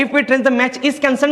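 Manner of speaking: slow rereading to find the error. Shown as a demonstration. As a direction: read it again slowly, checking each word. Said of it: "इथं पहिल्याचं चुकीचं काय आहे".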